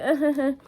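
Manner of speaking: imitated nervous giggle, short; awkward laugh. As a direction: fake a small, confused laugh. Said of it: "I'm laughing out of awkwardness and out of, like".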